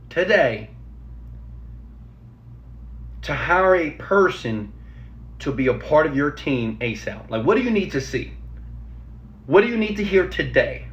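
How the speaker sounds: slow and deliberate, words spaced out; slowly. Shown as a demonstration. Coach repeating the question slowly for job seekers. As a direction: spell it out slowly so it sinks in. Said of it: "Let me say it slowly".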